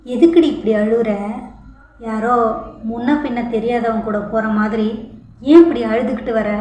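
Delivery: annoyed husband snapping at his weeping wife; impatient scolding. Acted. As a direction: lose patience with her crying. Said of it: "பொறுமை இழந்தவன்".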